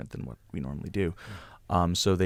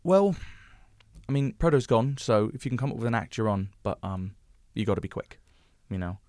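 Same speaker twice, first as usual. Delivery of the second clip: quoting the producer; 3 semitones higher than usual. Retold or imitated. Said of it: "Nigel ... goes".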